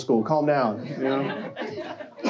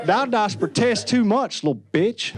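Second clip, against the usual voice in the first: Southern Shakespeare; 5 semitones higher, slower than usual. Pretend. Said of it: "without a Southern accent".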